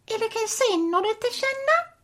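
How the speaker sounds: mock Italian gibberish; hammy pretend Italian accent; fake Italian. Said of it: "Are you asking me a question?".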